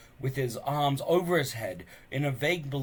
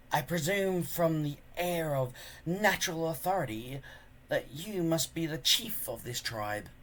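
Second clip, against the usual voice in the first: smooth charmer; 4 semitones higher than usual. Acted. Alvin flattering Stoic.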